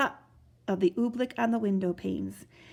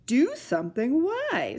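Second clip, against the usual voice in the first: amused smile; 5 semitones higher, 3 dB louder than usual. Acted. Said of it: "smiled the captain".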